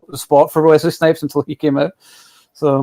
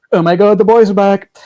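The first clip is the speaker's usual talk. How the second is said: higher, louder gushing delight; excited fan squeal; 7 semitones higher, 5 dB louder than usual. Retold or imitated. Fan seeing the Instagram post, gushing with excitement. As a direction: gush like a thrilled fan. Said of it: "I was like".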